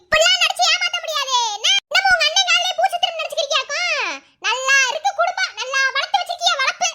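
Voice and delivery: scornful accusation. Acted. In-law accuses crying girl of acting.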